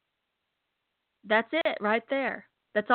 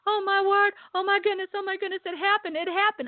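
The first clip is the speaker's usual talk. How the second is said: retold excited shouting; 10 semitones higher, faster than usual. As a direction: mimic her shouting in amazement.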